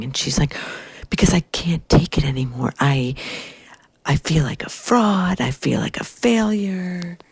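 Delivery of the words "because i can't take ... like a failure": imitating a tearful lament, pitch climbing; mock crying. Young woman crying to older colleague, tearful. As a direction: mildly wail it as a retold complaint. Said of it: "this young woman is crying".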